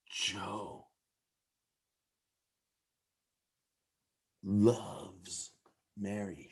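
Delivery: very soft and low, word by word; hushed, halting murmur. Shown as a demonstration. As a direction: barely voice it, long pauses between words. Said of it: "say those same three words in a way".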